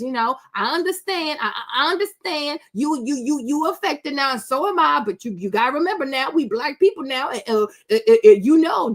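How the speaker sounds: a hint of an exaggerated Southern accent; mock Southern accent. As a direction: poke fun at her fake Southern accent. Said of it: "This fake accent she has".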